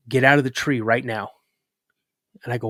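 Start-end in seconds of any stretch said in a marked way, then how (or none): 0.1-1.3 retold order, controlled and serious; firm order. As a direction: tell the kid firmly, without yelling. Dad's first retold order.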